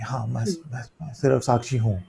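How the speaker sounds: quiet, flat, self-important murmur; mock detached murmur. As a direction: mimic someone posing as a detached witness. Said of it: "ऐसे बैठ के".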